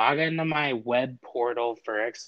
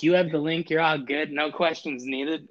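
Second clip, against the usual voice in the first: chirpy robot voice; 5 semitones higher than usual. Retold or imitated. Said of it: "They're like".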